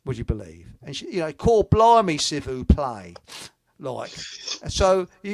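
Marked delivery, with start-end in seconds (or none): 1.3-3.2 put-on Cockney accent on French words; loud mock Cockney French teacher; imitating a Cockney teacher speaking French. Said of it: "taught French by a Cockney".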